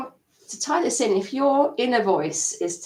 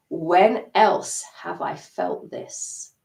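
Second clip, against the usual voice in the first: slow reflective question; much slower than usual. Shown as a demonstration. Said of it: "keep asking yourself that".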